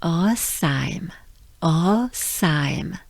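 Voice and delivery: Rosheim with throat r and nasal ending; French Rosheim. Shown as a demonstration. Teacher modeling the whole word. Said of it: "So as a whole".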